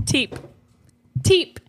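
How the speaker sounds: "Teep" with a sharp aspirated t in place of k; "Teep" mimicking a mouthful of water; "Teep" for keep. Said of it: "He says".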